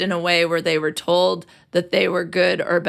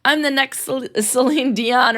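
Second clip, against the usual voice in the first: cocky contestant; 6 semitones higher than usual. Retold or imitated. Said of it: "they're like".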